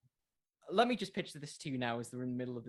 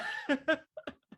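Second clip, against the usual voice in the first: short high laugh; bright laugh; 13 semitones higher, 4 dB louder than usual. Real, not acted. To a fellow creator, agreeing weekly content is hard, a high laugh.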